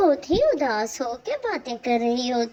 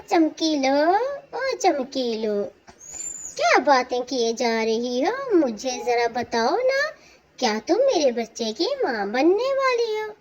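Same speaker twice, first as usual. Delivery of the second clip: excited husband; 3 semitones higher than usual. Acted. Husband excitedly asks about baby.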